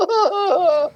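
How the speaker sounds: high imitated wail; mock crying. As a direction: act out a drawn-out bawl. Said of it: "And then I'm crying".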